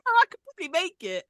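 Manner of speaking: high, loud, rushed imitation; suddenly keen, squeaked out fast; mock eagerness. Podcaster mocking a castmate who changes her mind, high eager voice.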